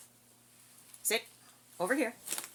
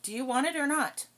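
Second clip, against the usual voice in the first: impatient loud; 6 semitones higher, 7 dB louder than usual. Real, not acted. Scolding the dog.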